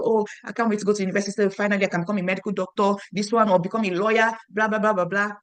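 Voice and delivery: fast, eager rush of words; mock-excited kid dreaming aloud; excited younger brother. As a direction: gush about finally getting to university. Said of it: "You've been excited about going to university".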